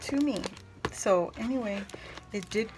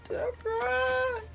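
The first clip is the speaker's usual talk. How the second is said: touched; slower than usual. Real, not acted. Touched by friend's note.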